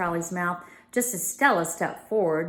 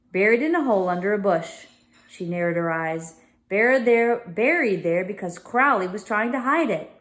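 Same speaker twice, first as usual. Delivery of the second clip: Emma voice; 4 dB louder than usual. Acted. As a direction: speak up as the young girl.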